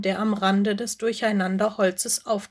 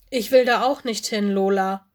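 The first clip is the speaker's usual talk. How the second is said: whining; 4 dB louder than usual. Acted. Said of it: "winselte Mino".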